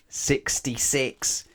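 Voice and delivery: slow, loud, high exclamation; drawn-out gleeful shout; excited reveal. A narrator's reading. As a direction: announce it like a big surprise. Reveal of sausage count to children.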